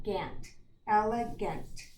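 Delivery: "gant" said alone, then "elegant" slowly; last syllable sounded out. Shown as a demonstration. Teacher isolating the last syllable for pupils, slow and careful. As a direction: break out the final "gant" of "elegant", unhurried. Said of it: "if I go to my last syllable".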